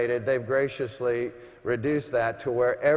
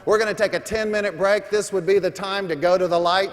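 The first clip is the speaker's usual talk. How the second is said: loud announcement; 3 semitones higher, 4 dB louder than usual. Real, not acted. Announcing break to arena.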